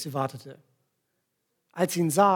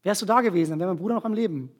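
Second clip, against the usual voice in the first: reproachful; faster than usual. Retold or imitated. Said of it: "ich mache ihm erstmal wieder eine Ansage".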